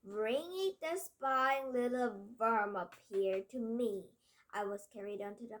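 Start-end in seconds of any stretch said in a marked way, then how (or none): 0.0-4.1 menacing witch. Acted. Witch's command continues.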